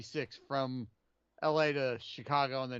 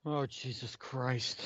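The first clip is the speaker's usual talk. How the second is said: slow groan; 3 semitones lower, 4 dB quieter, slower than usual. Real, not acted.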